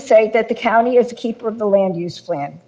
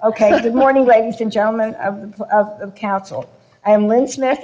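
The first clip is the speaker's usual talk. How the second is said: shivering; 3 semitones higher than usual. Real, not acted. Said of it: "I'll be chattering. My teeth are so cold".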